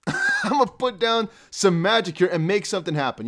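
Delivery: laughing through it, pitch up. Real, not acted. Streamer to viewers, laughing as he repeats his magic line. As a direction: giggle the magic promise out.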